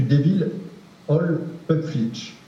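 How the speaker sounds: halting English accent on the name. Real, not acted. Researcher apologizing for his poor English accent. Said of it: "Excusez mon accent anglais pitoyable".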